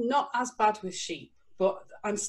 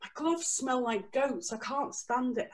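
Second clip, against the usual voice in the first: higher and slow, lightly voiced complaining woman; a hint of the dramatic boss moaning about her gloves; fussy rescue boss; 6 semitones higher, slower than usual. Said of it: "she kept going".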